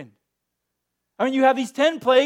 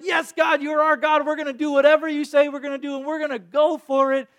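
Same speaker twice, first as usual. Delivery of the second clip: eager vow; 3 semitones higher, 3 dB louder than usual. Pretend. Pastor imagining the Israelites pledging to God, eager cry. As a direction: cry it out like a committed people. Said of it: "they haven't just said, like".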